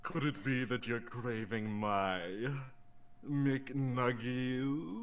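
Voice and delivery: low, slow zebra voice. Acted. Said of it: "I'm gonna do it in the zebra voice".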